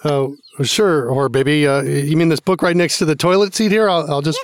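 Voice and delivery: low, gentle dad voice; talking to a baby. Retold or imitated. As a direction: patiently humor a small child. Father humoring toddler in clip.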